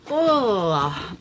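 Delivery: loud, high "oh" of reluctance; retold groan. Seller recalling reaction to buyer's offer, reluctant groan. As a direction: let out a drawn-out, torn "oh". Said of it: "I was like".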